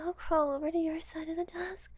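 normal talking voice

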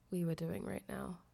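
ordinary talk

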